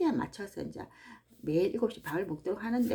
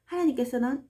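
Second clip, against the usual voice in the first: ordinary talk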